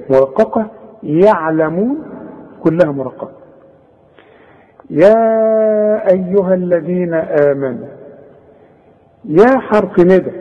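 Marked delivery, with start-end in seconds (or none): 4.9-7.9 measured chanted recitation of the verse; Quran recitation. Shown as a demonstration. Teacher recites the verse for students in tajweed style. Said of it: "وده مد منفصل".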